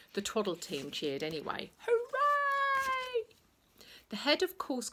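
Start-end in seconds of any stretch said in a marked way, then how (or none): 1.9-3.2 high, loud held hooray; high cheer. A narrator's reading. The Twaddle team cheers, high and loud.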